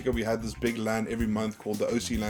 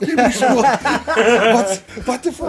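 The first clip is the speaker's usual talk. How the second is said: mock angry mom; 11 semitones higher, 10 dB louder, slower than usual. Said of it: "It's like".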